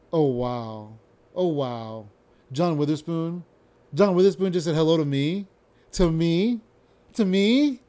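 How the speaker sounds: amazed it happened to him; starstruck excitement. Retold or imitated. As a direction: gush like a starstruck fan. Starstruck reaction to celebrity.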